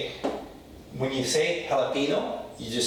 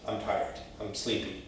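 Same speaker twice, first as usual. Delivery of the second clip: softer, drowsy I'm tired; sleepy; 3 semitones lower, 7 dB quieter than usual. Shown as a demonstration. Teacher acting out being tired, soft sleepy voice. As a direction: sound sleepy and fading. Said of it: "in Spanish it means".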